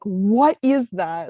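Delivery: mild mock yell, long drawn out; retold yell. Telling how Jitsu got jump scared, mildly imitated yelling. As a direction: draw it out slowly as an imitated startled yell. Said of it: "him yelling, like".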